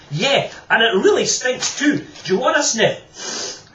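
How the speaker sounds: loud, high, slow teasing shout; cheeky offer. Acted. George offering his jar to Alison, loud and cheeky. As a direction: tease them with it.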